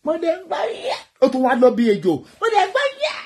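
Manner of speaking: high, mocking quote of the man in the video; hammed-up high voice mocking his words. Vlogger mocking the man's words in the viral video, high and mocking. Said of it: "tálákùnrin yìí".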